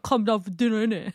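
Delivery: amused Northwest London dinner call; Northwest London accent. Shown as a demonstration. Showing friends how to call kids to dinner, Northwest London accent. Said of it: "a Northwest London accent".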